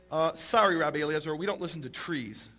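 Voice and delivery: understated apology, dropping away at the end; mild deadpan refusal. Retold or imitated. Rabbis' unmoved anticlimactic refusal.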